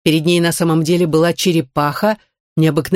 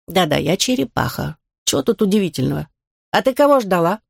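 put-on grumpy old turtle muttering; grumbling. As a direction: grumble it, annoyed. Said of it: "ворчливо пробурчала".

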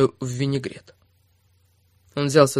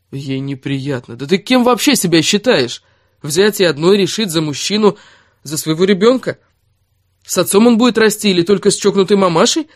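1 tag only: Erik's angry reproach; 4 semitones higher, 5 dB louder than usual. Acted. Erik berates Kira in a fight.

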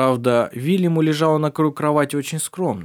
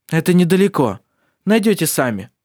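shouting over wind; 5 semitones higher, 5 dB louder than usual. Acted. Answer shouted in storm chaos.

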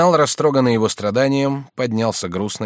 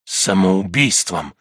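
slow, lower, dropping answer; sinking voice; 4 semitones lower, much slower than usual. A narrator's reading. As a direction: let the word fall heavily. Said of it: "упавшим голосом".

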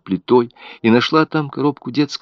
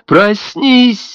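a very high, louder yell; shouting; 13 semitones higher, 5 dB louder than usual. A narrator's reading. Mother screams in her dead baby's face to wake up. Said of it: "закричала она".

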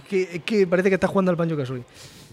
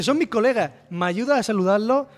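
higher, chirpy cartoon voice; cheerful cartoon vent; 5 semitones higher than usual. The vent character asks the player for help, high cartoon voice. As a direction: ask sweetly like a goofy cartoon creature.

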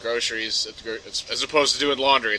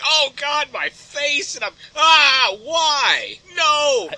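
much higher, louder mock screams; panicked fish; 12 semitones higher, 8 dB louder, much slower than usual. Fish being hooked, high hammed-up panic. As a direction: ham up a hooked fish's terror. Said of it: "sheer fucking nightmare".

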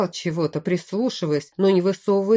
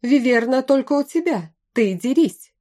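high, raised-voice challenge; shouted retort; 6 semitones higher, 4 dB louder than usual. A narrator's reading. Someone in the crowd refusing to fight, shouting high. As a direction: throw it back at the leader, pitched up. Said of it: "крикнул кто-то из разношёрстной толпы".

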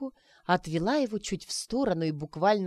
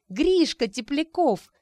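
higher, louder, slow joyful exclamation; excited cry; 8 semitones higher, 6 dB louder, slower than usual. Acted. Arina thrilled to see Grishka, excited. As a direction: call out his full name in delight. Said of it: "recognition exclamation".

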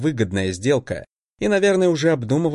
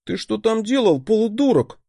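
sharp, raised rebuke; barking; 9 semitones higher than usual. A narrator's reading. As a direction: bark at him in worry. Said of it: "рявкнул на меня Фирс".

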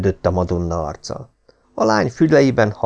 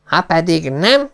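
higher, slow angry lord; shouted threat; 8 semitones higher than usual. A narrator's reading. Lord Travers crying out a threat at his son. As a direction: cry it out. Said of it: "kiáltotta".

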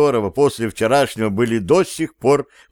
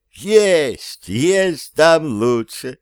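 high, eager interjection; perked up; 5 semitones higher, much slower than usual. A narrator's reading. Cat offers a better song, perking up. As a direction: jump in with eager, stretched emphasis. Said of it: "оживился кот".

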